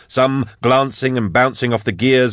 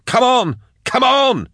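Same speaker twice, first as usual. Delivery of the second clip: very high, urgent yell; high-pitched, pressing shout; slower than usual. A narrator's reading. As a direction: yell them onward. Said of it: "he yelled".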